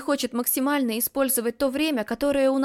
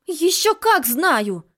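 slow, louder, higher protest; angry retort; 6 semitones higher, 7 dB louder, much slower than usual. Acted. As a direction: stamp each word angrily. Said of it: "сердито возражаю я".

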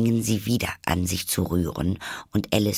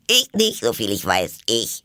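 abwehrende Tierstimme; 2 semitones higher, 4 dB louder than usual. Acted. Tiere schieben Schuld ab.

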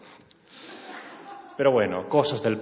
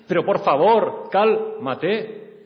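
higher and louder, begging her to calm down; loud pleading; 8 semitones higher, 6 dB louder, much slower than usual. Acted. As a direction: plead loudly with a crying partner.

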